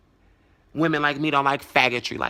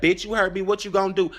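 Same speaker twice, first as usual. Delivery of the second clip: raised-pitch imitation of his dare; retold taunting challenge; 6 semitones higher, 4 dB louder, faster than usual. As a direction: act out his goading comeback.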